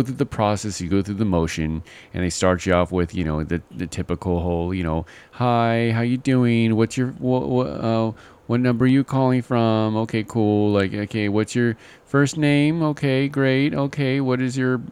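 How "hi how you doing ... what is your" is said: lightly voiced Indian call-center agent, higher; a hint of an Indian agent greeting a caller; Indian call-center accent. Caller imitating an overseas call-center agent, light Indian accent. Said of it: "I don't know why I'm using, like, an Indian voice".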